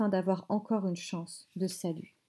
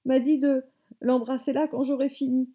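higher, louder outraged complaint; indignant rage; 5 semitones higher, 5 dB louder than usual. A narrator's reading. Grandmother denouncing the boy to his mother, outraged. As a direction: report the insult with indignation. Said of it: "tremblait de rage et d'indignation".

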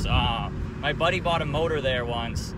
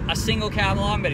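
higher, insistent retold repeat; 6 semitones higher, 3 dB louder than usual. Customer repeating himself to a clerk who doesn't hear, insistent. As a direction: say it for someone not hearing. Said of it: "he doesn't hear me".

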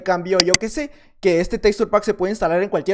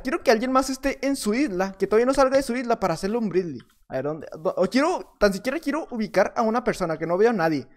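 normal talking voice

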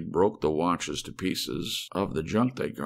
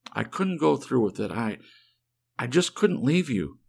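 a higher voiced worried wife; Helen, anxious wife; 4 semitones higher than usual. Wife explaining to Dave why she came back, anxious. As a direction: voice her breathless with relief and worry.

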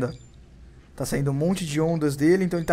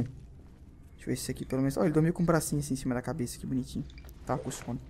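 hushed whisper; 2 semitones lower, 8 dB quieter than usual. Real, not acted. Sneaking past sleeping zombie.

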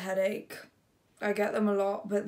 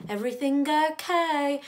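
higher, louder call of concern; partner calling through door; 8 semitones higher, 7 dB louder than usual. Acted. Chet knocking to check on partner, raised calling voice. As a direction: check in from behind a closed door.

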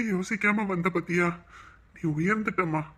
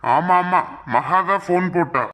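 louder, pressing report; urgent loud news; 5 dB louder than usual. Acted. Urgent news about daughter. (அவசரமாக உரக்கச் சொல்லுதல்)

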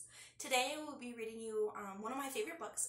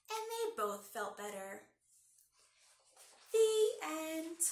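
put-on lively read-aloud for kids; story narration. A narrator's reading. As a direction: read it like storytime for little ones. Reads picture book aloud.

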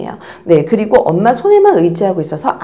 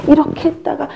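this way, then — pitched up; higher second take; 7 semitones higher than usual. Shown as a demonstration. Teacher voices the second position switch, higher. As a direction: lift it higher. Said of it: "엄마들이 자꾸 자세를 바꾸세요".

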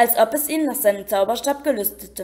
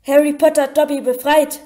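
high, louder squeal of wonder; shrill elf; 3 semitones higher, 5 dB louder than usual. A narrator's reading. Dobby stares at Harry, freed and amazed. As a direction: squeak it out in awe. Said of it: "sagte der Elf schrill".

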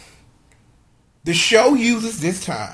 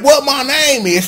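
a lightly voiced rapper, higher and louder; raised-pitch catchphrase call; 7 semitones higher, 5 dB louder than usual. Podcaster quoting a rapper on the show, lightly voiced catchphrase. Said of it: "you got a rapper".

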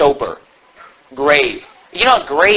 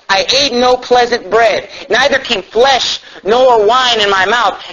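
slow, raised reading voice; solemn scripture reading; 7 semitones higher, 3 dB louder than usual. Real, not acted. Pastor reading Daniel to the church, slow and raised. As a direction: read it like holy writ.

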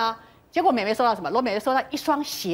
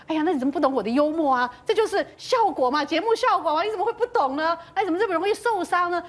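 higher, exasperated self-justification; defensive reproach; 4 semitones higher than usual. Retold or imitated. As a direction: imitate someone baffled that the joke offended. Acts out host defending his joke.

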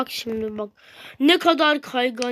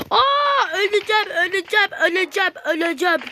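a panicked cry that trails into quick mumbling; mock panic; 4 semitones higher than usual. Real, not acted. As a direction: gasp it, then speed up fearfully. Panicking near the top.

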